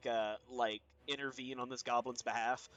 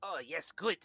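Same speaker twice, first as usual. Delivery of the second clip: lightly voiced kobold; a hint of a creature speaking broken speech. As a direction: speak haltingly as a grateful kobold. GM plays the kobold.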